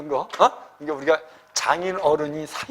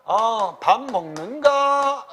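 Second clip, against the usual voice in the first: slow, rising elder-style question; old-style question; 3 semitones higher, much slower than usual. Shown as a demonstration. Teacher demonstrating the hage question form, slow and old-fashioned. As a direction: ask like an old gentleman, drawn out. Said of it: "의문문은".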